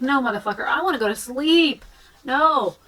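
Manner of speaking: annoyed protest. Retold or imitated. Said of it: "And you're like".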